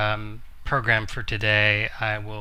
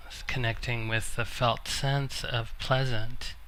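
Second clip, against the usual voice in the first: measured meditation guidance with long pauses; guided meditation; 7 dB quieter than usual. Acted. Teacher guiding a seated group into noticing the body, calm meditation voice. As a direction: gently guide listeners inward, leaving long silences.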